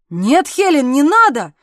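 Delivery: loud, alarmed protest; frightened cry. A narrator's reading. Husband pleading not to be given the baby, loud and alarmed. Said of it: "вскрикнул он с искренним испугом".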